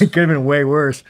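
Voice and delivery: still laughing. Real, not acted. Laughing after the punchline.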